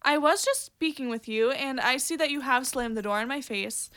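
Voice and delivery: formal American scolding, winding down; politely stern, put-on proper speech. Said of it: "very posh and proper, but maybe she could be American".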